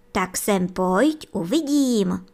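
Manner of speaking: strict. Acted. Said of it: "řekla maminka zase tak přísně".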